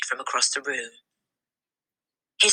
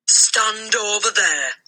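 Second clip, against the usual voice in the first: slow, higher stern command; ordered; 7 semitones higher, slower than usual. A narrator's reading. The headmistress orders the boy aside. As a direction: order him aside coldly. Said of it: "the Trunchbull ordered".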